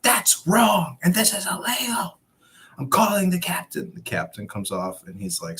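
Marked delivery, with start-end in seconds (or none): 0.0-3.9 higher, shrill-pitched indignant woman, slowed; mock the outraged employee. Employee protesting to the police, a higher indignant mock voice.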